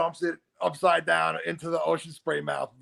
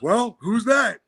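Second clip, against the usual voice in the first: Steve Austin voice; 7 semitones higher, 5 dB louder, slower than usual. Retold or imitated.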